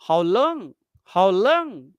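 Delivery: "long" swung up and over; short querying tone arched on "long"; repetition question. Shown as a demonstration. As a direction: lift LONG as if asking to hear it back. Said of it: "Repetition question which repeats".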